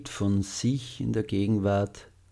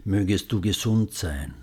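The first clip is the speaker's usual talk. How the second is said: tender, clear spoken wish; gentle and loving. Shown as a demonstration. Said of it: "Wiederholen Sie die Sätze sanft und liebevoll".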